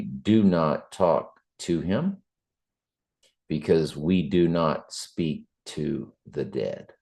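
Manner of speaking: slow, deliberate warning; firm, measured instruction with spaced words; making it clear. Retold or imitated. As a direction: spell it out slowly, word by word. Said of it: "I did make it clear to somebody".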